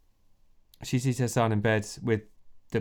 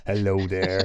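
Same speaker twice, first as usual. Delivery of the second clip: West Country robot. Acted. Game master as robot doctor, botched Irish turned West Country. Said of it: "when I'm talking like a robot".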